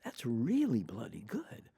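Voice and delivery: slow hushed awe at the tape; impressed whisper. Retold or imitated. To the interviewer, reliving hearing the old tape, whispered. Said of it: "I'm like".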